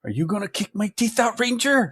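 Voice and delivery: high mock villain taunt; movie villain quote. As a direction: sneer it like the bad guy. Quoting villain line from movie.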